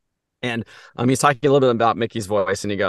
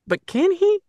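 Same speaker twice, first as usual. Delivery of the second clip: high cartoon mouse falsetto; Mickey falsetto. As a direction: squeak it like Mickey. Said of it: "I'm like".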